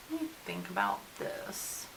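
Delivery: muttered to self. Real, not acted. Vlogger pausing over her makeup, muttering to herself. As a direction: think aloud under your breath.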